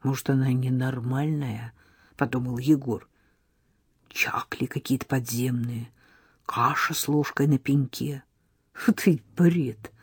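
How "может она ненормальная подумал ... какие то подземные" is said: whispered doubtful thought; boy thinking she's mad; muttered thought. Acted. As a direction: whisper it to yourself. Egor's inner thoughts.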